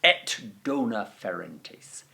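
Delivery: slow proud recitation. Shown as a demonstration. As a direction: declaim the Virgil slowly with pride. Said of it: "just raw Virgil".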